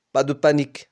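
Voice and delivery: put-on a lightly American-accented "Pas de panique". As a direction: coach brushing it off with a hint of American accent. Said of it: "dit-elle avec un accent américain".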